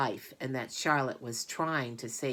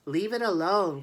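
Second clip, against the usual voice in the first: firm, louder command; girl's sharp louder command; 5 semitones higher, 7 dB louder than usual. A narrator's reading. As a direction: order him to stop. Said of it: "commanded Fern".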